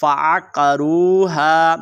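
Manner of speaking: फ़अक़रूहा with अ squeezed from mid-throat; slow recitation, throaty ain in फ़अक़रूहा; articulated Ain. Shown as a demonstration. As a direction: press the अ of फ़अक़रूहा from the middle throat. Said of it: "हलक के दरमियान वाले हिस्से से".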